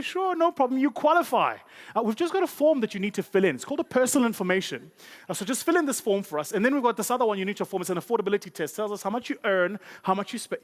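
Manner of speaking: high, cheery clerk voice; hammed-up sunny bank teller; chirpy bank clerk. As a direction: play the bright, breezy clerk.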